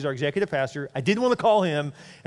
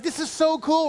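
high-pitched, gushing delight; thrilled intern; 12 semitones higher, slower than usual. Retold or imitated. Intern driving the staff home in his new car, thrilled. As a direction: imitate someone thrilled, stretching the key word.

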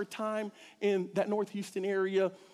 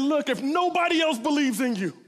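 rousing call; 5 semitones higher, 5 dB louder than usual. Retold or imitated. Bus driver rallying kids.

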